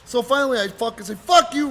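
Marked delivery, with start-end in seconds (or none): 1.2-1.7 loud, high burst of cursing; retold angry outburst. Fighter finally snapping at his friend, angry outburst. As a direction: curse him out, raised voice.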